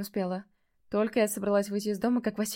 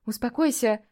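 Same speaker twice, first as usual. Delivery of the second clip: louder, snapped command; sharp shout at the cat; 5 dB louder than usual. Acted. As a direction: bark it to make him settle down. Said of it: "прикрикнула на кота".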